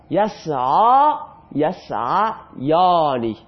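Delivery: slow drill. Shown as a demonstration. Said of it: "teacher drills verb forms".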